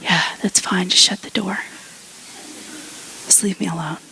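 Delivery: understated weary brush-off; a touch of drained resignation; acted exhaustion. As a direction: imitate someone too tired to engage. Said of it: "you're, like, so exhausted".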